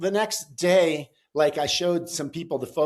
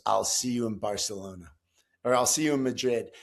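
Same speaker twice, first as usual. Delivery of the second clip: veiled threat; 5 semitones lower than usual. Retold or imitated. Passenger's threat retold.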